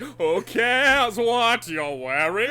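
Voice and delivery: high, very slow showman; vaudeville host voice. Acted. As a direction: ham it up like a vaudevillian. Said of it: "He's like".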